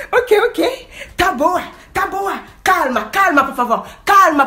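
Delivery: high, loud panicked begging; frightened man pleading loudly; pleading scared man. Retold or imitated. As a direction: beg her to calm down. Scared man begs her calm.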